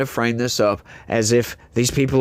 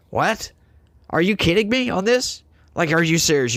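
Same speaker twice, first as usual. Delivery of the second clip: incredulous; 4 semitones higher than usual. Real, not acted. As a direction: pitch jumps high in disbelief. Disbelief at Canada's tariffs.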